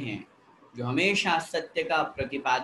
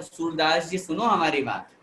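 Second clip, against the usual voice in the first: respectful call. Shown as a demonstration. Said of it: "उसी की जगह अगर हम बोले".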